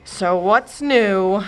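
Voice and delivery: slow grumbling question; muttered. Acted. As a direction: grumble it slowly. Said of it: "muttered the fairy godmother".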